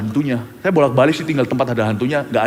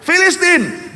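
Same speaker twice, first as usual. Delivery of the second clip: mock shout; 13 semitones higher, much slower than usual. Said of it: "si Delila teriak".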